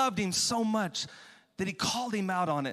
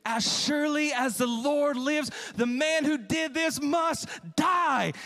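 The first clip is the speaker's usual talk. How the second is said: burning anger; 5 semitones higher, slower than usual. Acted. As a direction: thunder the death sentence. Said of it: "David burned with anger".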